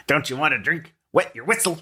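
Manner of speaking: put-on high, teasing drunk voice; wasted barfly. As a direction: coax them into a drink like a tipsy pest. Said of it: "Oh, he's wasted".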